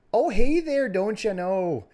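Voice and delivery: put-on high, loud Upper Midwest "don't you know" accent; Wisconsin accent. Performing the accent the friends asked for. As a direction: lay on a thick Wisconsin accent. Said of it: "you're the good accent guy".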